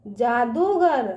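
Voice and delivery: slow जादूगर, दू held long; drawn-out long ū. Shown as a demonstration. Teacher asking children to repeat, जादूगर with long ū. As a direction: stretch out दू in जादूगर. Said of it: "इसका उच्चारण ना खींच के करते हैं".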